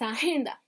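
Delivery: agenda stressed on GEN, as the student's answer; settled a-GEN-da, accent on GEN in agenda; stress on second syllable. Retold or imitated. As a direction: say agenda leaning on its middle syllable. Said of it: "es en la segunda".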